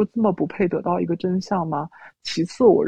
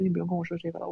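much softer, settled voice; calm and gentle; 8 dB quieter, much faster than usual. Retold or imitated. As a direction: let it go quietly and kindly. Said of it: "我的语气又能恢复到现在的状态". (平静轻柔地说)

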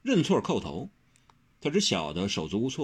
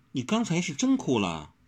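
higher, concerned asking; mildly worried, pitched-up question; 7 semitones higher than usual. A narrator's reading. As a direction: ask with gentle concern. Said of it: "只关心地问".

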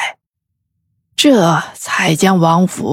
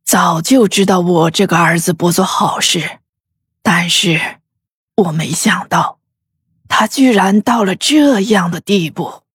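感慨; 3 dB quieter than usual. A narrator's reading. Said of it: "感慨地说道".

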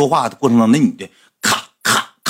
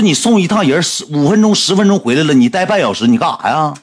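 angry retold yelling; 4 semitones higher than usual. Friend scolds his buddy for taking half an hour, angry raised voice. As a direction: chew him out, pitch pushed up.

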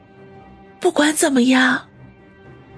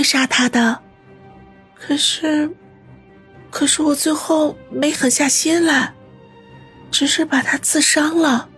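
dying words. Acted. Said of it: "断断续续地说道".

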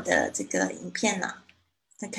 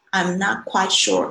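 quite leaned on, said slowly; slow I'm not quite sure with quite stressed; slower than usual. Shown as a demonstration. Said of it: "在这边加了一个quite". (放慢并重读quite)

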